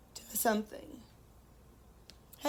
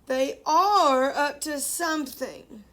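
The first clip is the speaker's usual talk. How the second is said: suspicious thought; 5 dB louder than usual. Acted. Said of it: "thought Farmer Brown".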